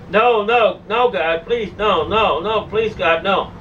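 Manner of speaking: understated cry of mortal terror; retold terrified scream. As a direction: beg in terror, holding back the full scream. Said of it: "I screamed out as a".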